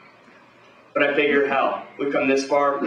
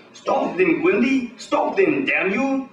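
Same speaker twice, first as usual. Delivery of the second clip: frantic scientist screaming; 8 semitones higher, much slower than usual. Acted. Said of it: "Scientist keeps screaming".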